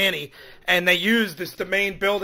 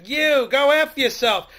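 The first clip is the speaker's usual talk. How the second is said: yelling; 6 semitones higher, 5 dB louder, slower than usual. Retold or imitated. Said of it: "she just started cursing and yelling".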